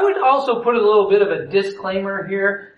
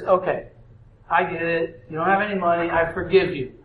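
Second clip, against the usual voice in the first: lower, softer, gentle pardon; forgiving king; 4 semitones lower, 4 dB quieter than usual. Acted. King softly forgiving the servant who cannot pay. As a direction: let him off kindly.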